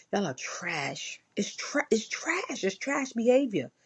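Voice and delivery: hushed, contemptuous whisper. Real, not acted. Whispering to viewers that cheating men are trash. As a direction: breathe it out with scorn.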